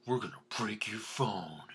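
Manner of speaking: hushed threatening whisper. Retold or imitated. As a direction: breathe the threat out unvoiced. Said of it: "They're all like".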